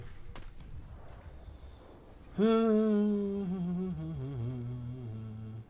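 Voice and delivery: a long drawn-out sigh of tiredness; long weary sigh. Real, not acted. Streamer winds down the session with a long weary sigh. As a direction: let the breath go slowly, worn out.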